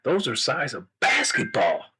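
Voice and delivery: lightly voiced astonished king; impressed king. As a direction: marvel as a king, stretching the words. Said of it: "And the king said".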